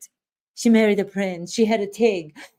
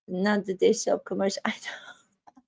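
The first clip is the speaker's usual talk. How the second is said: whisper; 7 dB quieter than usual. Real, not acted. Whispered aside.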